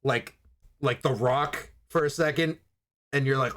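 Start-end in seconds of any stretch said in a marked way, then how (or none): none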